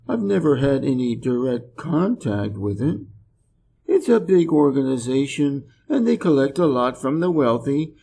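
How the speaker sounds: mildly apathetic, trailing off at the end; half-hearted pitch from someone who hardly cares; unenthusiastic. Acted. Drive captain making remarks about the Red Cross, lacking in enthusiasm. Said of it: "was totally lacking in enthusiasm".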